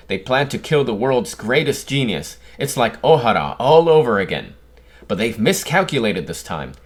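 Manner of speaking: lightly voiced scoop-hungry newsman; mildly hammed-up news announcement; excited newsman. Reads a character's news scoop aloud.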